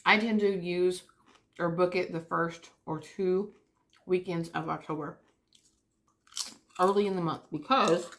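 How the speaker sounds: talking while crunching chips. Real, not acted. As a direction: speak through a mouthful of chips. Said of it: "sorry guys, these chips are really loud".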